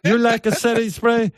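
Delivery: put-on high, mincing girly voice; man doing a woman's voice. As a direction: falsetto lady impression. Mimicking the guest's girl voice.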